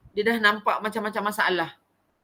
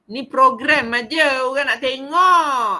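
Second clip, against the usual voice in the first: getting angry; 3 semitones higher, 7 dB louder, slower than usual. Real, not acted. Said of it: "Saya dah mula marah lah tu".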